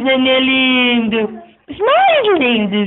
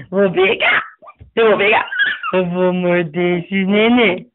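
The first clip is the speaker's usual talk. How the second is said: playful laughing shout; 4 semitones lower, faster than usual. Real, not acted. Playful threat to grab babies.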